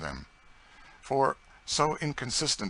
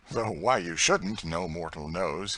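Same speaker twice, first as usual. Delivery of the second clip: gayer tone; 4 dB louder than usual. Acted. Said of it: "he said in a gayer tone".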